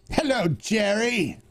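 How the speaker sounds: slow, loaded "Hello, Jerry"; Newman greeting. Retold or imitated. Host answers back with the sitcom rival's slow greeting. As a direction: greet him like an old rival. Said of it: "Jerry Seinfeld".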